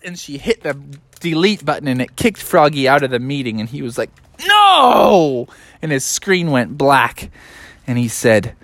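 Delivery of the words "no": high, loud, drawn-out cry; wail of protest. Acted. Froggy kicked out of the meeting, loud wail. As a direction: cry out as all is lost.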